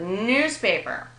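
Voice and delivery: NEWSpaper, drawn out with stress on news; slow newspaper, merged into a single word; one compound word. Shown as a demonstration. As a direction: join it up, weight on the news of newspaper. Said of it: "they just merge into one compound word".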